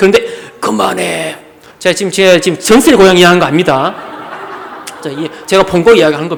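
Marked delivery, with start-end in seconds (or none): 0.6-1.4 deep, soft, low male voice. Retelling how someone with a thin voice suddenly spoke in a deep, man-like voice. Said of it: "남자 목소리예요".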